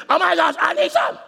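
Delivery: high, loud desperate outcry; loud, high yell of a needy husband. Retold or imitated. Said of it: "you need to remember she's yelling".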